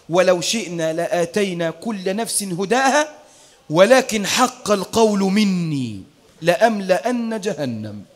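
low, slow and grave, sinking at the end; stern divine reply. Acted. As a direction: pronounce the verdict heavily. God's stern reply recited.

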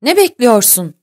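narrated flash of anger; angry. A narrator's reading. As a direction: demand it angrily, as a captain to a crewman. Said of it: "öfkeyle".

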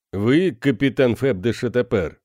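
глухой загробный голос тени; мрачно и холодно спроси из темноты; зловещий призрак. A narrator's reading. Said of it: "Тень заговорила". (таинственная тень, глухо и отстранённо)

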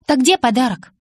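high, loud, playful eagerness; feigned interest. A narrator's reading. Bella holds out her hand for the gift, feigned interest. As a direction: keep up the show of eagerness. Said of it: "Продолжая разыгрывать интерес".

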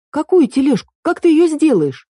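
high, loud incredulous questions. A narrator's reading. Эль doubts Марко's cart idea, high and loud. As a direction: challenge the idea in disbelief.

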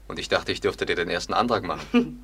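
words spilling into a laugh; laughing tease. Acted. Man jokes about proposing to his girlfriend, laughing. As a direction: tease her through a laugh. Laughs while teasing her.

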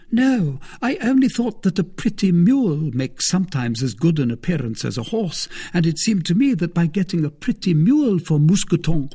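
Madame Coquenard, coaxing. Acted. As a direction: play the careful wife bargaining. Madame Coquenard quoted in the story.

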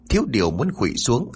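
ordinary delivery, nothing marked

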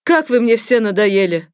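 loud exasperated yell; the scary doctor yelling at the blonde. Acted. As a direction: snap at her, fed up. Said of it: "заорала страшная тётка".

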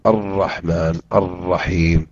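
الرحمن الرحيم said slowly with each ر held and doubled; slow careful recitation of الرحمن الرحيم. Shown as a demonstration. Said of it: "شدد في ذلك وقل".

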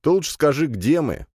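put-on high, thin spider girl asking; light squeaky spider question. Spider Leya asks where. (высокий голосок паучихи)

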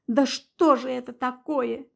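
usual speaking voice

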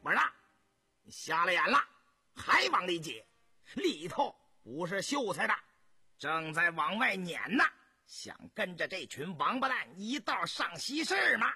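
loud, scolding guard; 兵丁呵斥. Acted. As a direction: berate someone pushing in, as a rude soldier. Soldier barring the way, berating him. (兵丁粗声呵斥拦人)

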